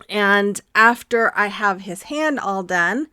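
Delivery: slightly winded, slow breathy pace; out of breath. Real, not acted. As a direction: talk while catching your breath. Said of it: "I don't know why I'm out of breath".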